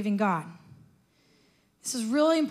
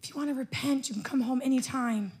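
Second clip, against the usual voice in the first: tender parent. Retold or imitated. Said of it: "You're like".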